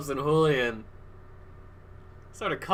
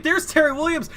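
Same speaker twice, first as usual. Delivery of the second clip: excited commentary; 10 semitones higher than usual. Real, not acted. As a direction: yell the name at the climax. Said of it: "I got too excited".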